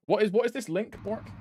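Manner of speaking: ordinary talk, nothing marked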